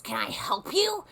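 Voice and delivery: high, pushy "can I help you"; mock busybody lady. Quoting the nosy customer, mock prim. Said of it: "and she says".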